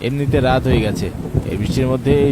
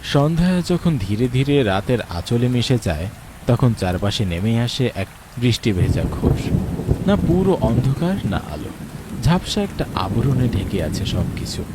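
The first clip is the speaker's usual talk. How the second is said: calm, measured storyteller voice; wistful story narration over music. A narrator's reading. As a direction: set the scene like a radio drama narrator. Narrator describes rainy dusk.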